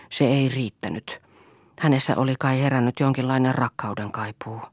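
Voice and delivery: a hint of a shaken husband telling his tale; lightly voiced Aulis. Aulis confesses to Lea how he beat his wife's lover, a lightly voiced shaken husband. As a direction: let the confession spill out, close to plain.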